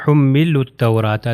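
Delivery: حملوا التوراۃ as "hummilut-tawraata"; حملوا التوراۃ with waw, alif and lam silent; lam joined to te. Shown as a demonstration. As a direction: run حملوا into التوراۃ with a doubled t. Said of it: "حملوا میں واو اور الف تلفظ نہیں ہوگا".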